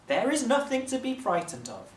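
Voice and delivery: a royal father calming his frightened people; the Raj. A narrator's reading.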